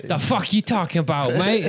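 joking British "mate" retort; British accent. Acted. Comic auditioning for a British role, British accent. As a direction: put on a cheeky British accent. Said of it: "The British accent came out right away".

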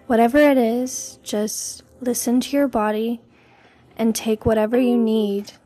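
measured meditation delivery with long pauses; guided meditation. Acted. Podcast host leading listeners through releasing stress, guided meditation. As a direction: guide the listener gently, leaving room to breathe.

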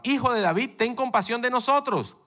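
high, loud plea; crying out to Jesus. Acted. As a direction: shout for mercy. ¿Quiénes gritaban?.

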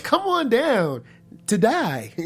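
mock ad pitch. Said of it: "It's like".

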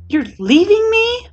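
high, loud, drawn-out wail of disbelief. A narrator's reading. Friend learns he is being left behind, wailing. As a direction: wail it like you're being abandoned. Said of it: "Kaminari wails".

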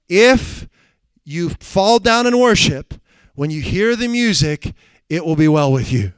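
fiery sermon delivery; preaching at full force. Acted. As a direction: thunder out the scripture. Preacher repeats the if.

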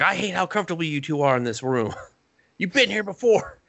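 high-pitched imitated complaint; mock jealous accusation. Jealous girl seeing the two in his room, mock accusing.

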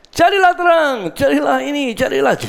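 booming divine command. Acted. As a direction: proclaim it like God creating light. God speaking creation into being.

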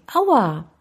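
mild storyteller's yell of pain; cry of pain. A narrator's reading. Boy hurts his ankle on a hike, mild pained cry. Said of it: "Der Schmerz ließ ihn laut aufschreien".

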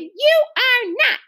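high, slow indignant denial; contradicting. A narrator's reading. Ramona contradicting the boy about leading. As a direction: shut him down firmly. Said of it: "contradicted Ramona".

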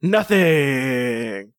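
flat robot-y delivery. Acted. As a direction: drone it like a machine. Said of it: "I'll make it sound robot-y".

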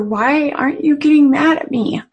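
put-on a teen's emotional question to his mother; emotional plea. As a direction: ask it upset, barely holding it together. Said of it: "actually emotionally asked her".

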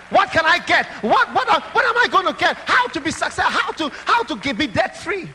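high, loud whiny mocking voice; shrill mock of a greedy Christian asking what he gets; mock greedy churchgoer. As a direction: sneer at the self-seeking believer. Preacher mimics greedy churchgoers.

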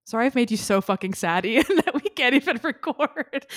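high, loud laugh through tears; laughing sorry to the co-host; laughing apology. Real, not acted. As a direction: laugh it off while still emotional.

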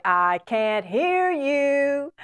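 high, slow mock sergeant yell; drill sergeant. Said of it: "he'd say".

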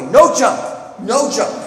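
loud, high mock toddler protest; frustrated toddler. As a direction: imitate a small child giving up in frustration. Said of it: "She was frustrated, discouraged".

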